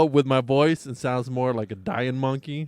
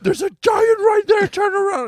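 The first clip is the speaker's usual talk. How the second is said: frantic excitement; 6 dB louder than usual. Retold or imitated. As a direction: yell it out high, stretched. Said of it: "this guy goes".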